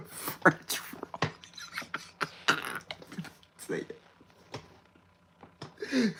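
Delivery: breathy whispered repeat. Shown as a demonstration. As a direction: whisper it to yourself.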